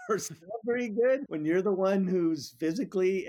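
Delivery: rueful chuckle breaking into the words; laughing through it. Real, not acted. Guest on a podcast on slavery, laughing ruefully. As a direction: laugh to keep from crying. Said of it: "I don't know why I'm laughing".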